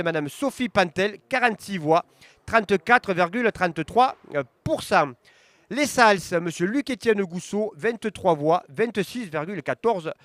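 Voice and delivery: results read-out. Acted. Reading election results to viewers, steady announcer voice. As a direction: call each town, then the numbers. Reads commune results aloud.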